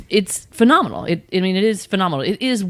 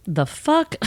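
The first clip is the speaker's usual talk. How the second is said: much higher, incredulous mock yelp; hammed-up disbelief, pitched way up; mock shocked; 10 semitones higher than usual. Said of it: "I'm like".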